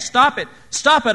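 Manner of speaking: loud, high, pleading shouts; desperate yell of protest; crying out. A narrator's reading. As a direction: cry it out twice, urgent and high. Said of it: "I cried".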